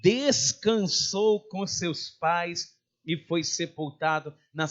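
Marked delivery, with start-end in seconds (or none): 0.0-1.5 "descansou" stretched and firmly pressed; emphatic, deliberate "descansou"; stress on descansou. Shown as a demonstration. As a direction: lean slowly on every syllable of "descansou". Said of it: "a palavra é".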